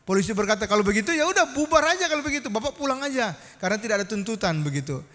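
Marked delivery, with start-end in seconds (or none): 0.7-4.6 quick retold police send-off; imitated officer, fast and casual; brisk dismissal. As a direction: rattle it off higher, waving the matter away.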